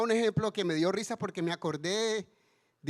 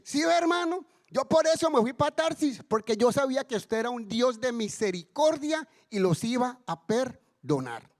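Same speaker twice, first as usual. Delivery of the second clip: higher-pitched, indignant mock outburst; acted-out peeved complaint, pitched up; angry Jonah; 4 semitones higher than usual. Jonah complaining to God over Nineveh's pardon, angry. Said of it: "Jonás se ha pegado la enchichada del siglo".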